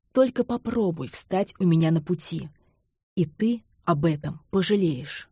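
ordinary delivery, nothing marked

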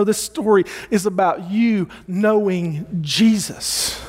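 usual speaking voice

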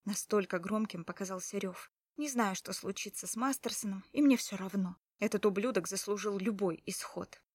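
ordinary delivery, nothing marked

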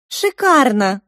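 high, loud delight. Acted. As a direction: gush over the room. Marinka delighted.

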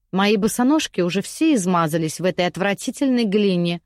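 a haughty lady grumbling at the guard; lightly voiced spoilt lady. Lady Cefeya scolds the young man, mildly peevish. Lady complains in her cell.

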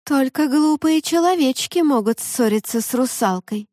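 high, cold mermaid voice; a warning, pitched high. Acted.

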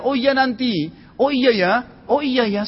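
high, airy mock excuse; mock dismissive. Preacher mocking lazy promises, breezy. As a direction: brush it off like a lazy believer.

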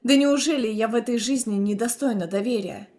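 ordinary delivery

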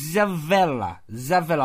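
Zavella starting straight on a Z; silent Y. Shown as a demonstration. Having another go at the name, Zavella with silent Y. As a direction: say Zavella with no Y sound before it. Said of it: "I think the Y is silent".

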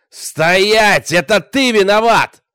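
loud, high command shout. A narrator's reading. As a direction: bellow the order. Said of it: "закричал Богдан". (громкий крик «Стоять!»)

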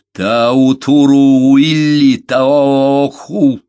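loud, high, drawn-out proclamation; resolute appeal. A narrator's reading. Беккер asks Амурея for help, resolute. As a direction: call it out slowly and forcefully.

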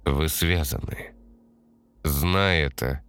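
slow, measured warning; stern. Acted. Fatum sternly warns the chosen one, slow. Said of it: "грозно сказала Фатум".

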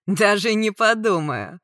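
loud, slow scornful refusal; menacing refusal. A narrator's reading. Attacker answering her plea, menacing. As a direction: stretch the refusal out with force.

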